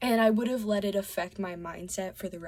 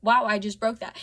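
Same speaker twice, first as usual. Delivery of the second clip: louder mild "oh, wow" of realisation; unbothered realisation; 7 dB louder than usual. Retold or imitated. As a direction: retell noticing a mishap without anger. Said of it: "I just didn't react that frustrated, angry way".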